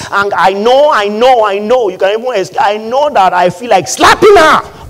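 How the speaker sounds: mock exasperation rising to a shout; acted frustration. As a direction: build from insistent repeats to an outburst. Acts husband struggling to hold anger.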